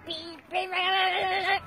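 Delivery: put-on child's playful robot beeps. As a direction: beep like a toy robot. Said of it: "this is my robot then".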